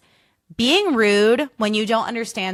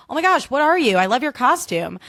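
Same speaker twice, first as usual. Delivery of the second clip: nice enthusiastic greeting; 5 semitones higher than usual. Shown as a demonstration. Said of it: "There's a nice way to be like".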